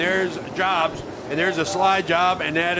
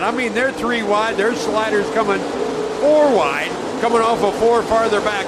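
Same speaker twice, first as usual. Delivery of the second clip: excited commentary; 5 semitones higher than usual. Real, not acted. Commentator thrilled by wide racing.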